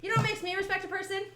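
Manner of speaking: high, fast, loud squeaky voice. Acted. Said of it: "squeaky voice".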